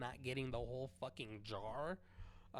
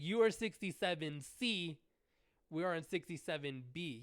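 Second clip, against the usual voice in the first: higher, louder, insistent; loud firm correction; 4 semitones higher, 6 dB louder than usual. Retold or imitated. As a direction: correct him sharply. Correcting the line cutter.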